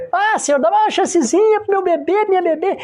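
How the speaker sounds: high-pitched imitation of a begging parent; mock pleading. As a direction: plead like a parent asking for one last chance. Mimics parent begging at last hour. (súplica imitada, em voz aguda)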